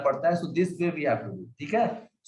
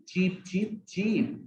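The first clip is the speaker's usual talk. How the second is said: chick cheeps; 3 semitones higher, 3 dB quieter, much slower than usual. Shown as a demonstration. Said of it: "this way we recite poem".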